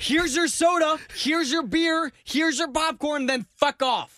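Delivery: high-pitched, exasperated listing; brusque. Acted. Demanding how servers should deliver food, brusque and irritated. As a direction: rattle off each item as a curt dismissal.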